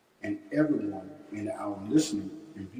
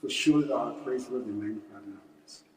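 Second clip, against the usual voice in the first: prayer recitation. Real, not acted. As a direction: recite a memorized prayer, each phrase falling away at the end. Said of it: "we want to recite the Muslim prayer".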